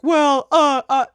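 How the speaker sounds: high, loud mock protest; mocking objectors. Imitating viewers who object to her words, mocking. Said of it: "you guys are like".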